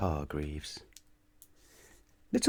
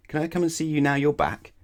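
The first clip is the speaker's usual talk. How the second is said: Mister Muddle voice; 8 semitones higher, 4 dB louder than usual. A narrator's reading. Muddle asks to visit.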